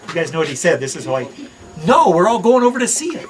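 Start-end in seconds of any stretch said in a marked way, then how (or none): 1.9-3.3 punchline laughed out, higher and louder; can't keep a straight face telling it; laughing. Retold or imitated. Retells friend's punchline, laughing.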